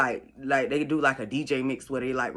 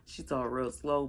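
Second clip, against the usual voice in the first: slow; 5 dB quieter than usual. Shown as a demonstration.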